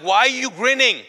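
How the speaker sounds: high, loud incredulous question; retold indignant challenge. Shaken man confronts his grinning brother, loud indignation. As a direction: demand it in mock outrage.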